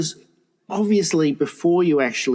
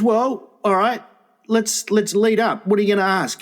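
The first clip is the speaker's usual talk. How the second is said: imitated older woman; 6 semitones higher than usual. Retells older woman challenging the suitor.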